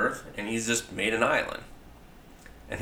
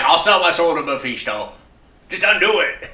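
mock desperate plea; 8 semitones higher, 9 dB louder than usual. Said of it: "He was like".

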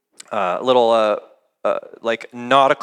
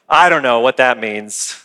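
lower-pitched mock puzzlement; acted bafflement; 6 semitones lower than usual. Bible reader stumped by a passage, mock baffled. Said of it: "just been like".

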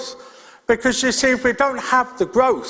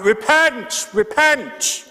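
higher-pitched, half-hearted street-preacher cry; mock bellowing; 4 semitones higher, much slower than usual. Imitating a preacher on a street corner, mild mock bellow. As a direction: imitate a street preacher calling out, without full volume. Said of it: "a preacher standing on a street corner bellowing out".

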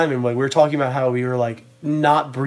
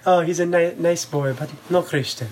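imitated broken-English grandma with Nicaraguan accent; grandma's Nicaraguan accent; 4 dB quieter than usual. Grandma judging the unbaptized friend, broken-English Nicaraguan accent. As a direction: do your best Nicaraguan grandma accent, dropping softer at the end. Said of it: "do my best to do her accent".

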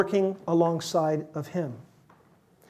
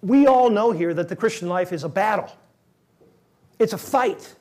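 objecting listener. Acted. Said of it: "Now wait, you say".

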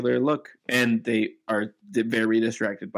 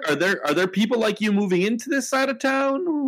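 bartender voice; 9 semitones higher than usual. Acted. Bartender keeps questioning.

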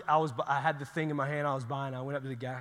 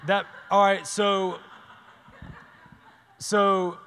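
laughing; 5 semitones higher, 10 dB louder, much slower than usual. Real, not acted. Laughs at own TMI remark.

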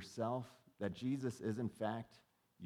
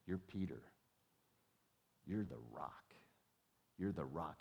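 tender revelation; 4 semitones lower than usual. Retold or imitated. Jesus speaking to Simon's soul.

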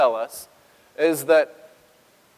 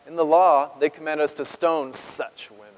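mild disdain in an accuser's voice; understated scorn, as if she were dirt; contemptuous. Acted. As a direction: quote the law with a touch of contempt. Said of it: "Can you almost hear that in that?".

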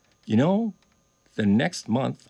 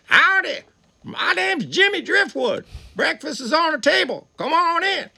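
voicing an old singer's welcome; the singer's greeting; 13 semitones higher than usual. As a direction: greet him big and high like a country host.

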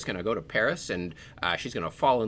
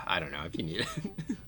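breathy whisper, sigh first; whispered aside; 6 semitones higher, 6 dB quieter than usual. Real, not acted. Teasing a friend about coffee, in a whisper. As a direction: let it out as a sly whisper. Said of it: "aside to coffee comment".

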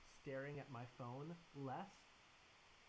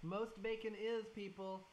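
higher, louder and slow; emphatic; 8 semitones higher, 7 dB louder, slower than usual. Real, not acted. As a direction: drive the warning home. Emphatic warning to listeners.

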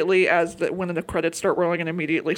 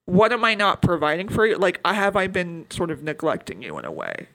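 sweet concern. Retold or imitated. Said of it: "in a very sweet way".

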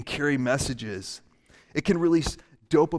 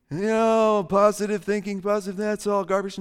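higher, mock-skeptical dismissal; scoffing skeptic; 5 semitones higher than usual. Doubter dismissing positive thinking, mock scoffing. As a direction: wave it off as nonsense.

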